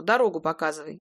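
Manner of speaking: low, terse order as Pasha; мужской голос Паши. A narrator's reading. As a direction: bark the directions curtly. Паша велит показывать дорогу. (коротко, приказным тоном)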